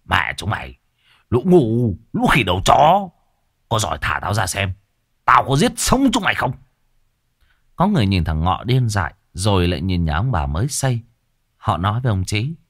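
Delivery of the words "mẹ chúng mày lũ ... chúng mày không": spitting curses. Acted. Bound madman cursing the villagers, venomous snarl. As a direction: spit the curses out like a snake. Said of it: "nhổ nước bọt phì phì như con rắn".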